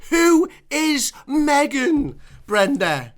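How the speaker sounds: very slow, loud, drawn out; exasperated dad. Retold or imitated. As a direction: drag it out like a fed-up husband. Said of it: "And my dad's like".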